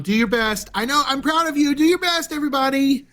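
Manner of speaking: high, beaming proud mother voice; proud mom. Pretend. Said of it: "try to sound like a proud mom".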